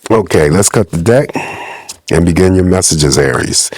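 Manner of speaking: stuffy, muffled voice from a cold. Real, not acted. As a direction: talk through a blocked-up head cold. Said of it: "my voice sounds muffled".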